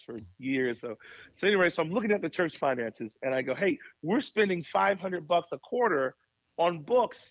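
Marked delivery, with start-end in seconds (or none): 3.5-7.2 frustrated. Retold or imitated. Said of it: "And I got so frustrated".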